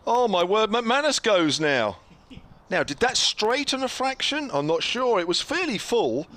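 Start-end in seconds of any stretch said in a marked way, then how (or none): 0.0-2.0 excited. Real, not acted. Wicket falls, live commentary call.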